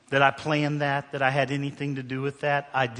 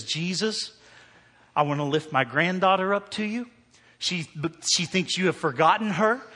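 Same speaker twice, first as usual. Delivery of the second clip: grandmother praying; 3 semitones higher than usual. Retold or imitated. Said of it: "The grandmother says".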